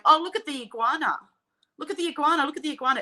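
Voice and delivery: high, gushing mock gawking at a lizard; mock excited Aussie tourist. Mocking Aussies pointing at a water dragon, high and gushing. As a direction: ham up a wide-eyed local pointing at a lizard. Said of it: "Aussies are standing there going".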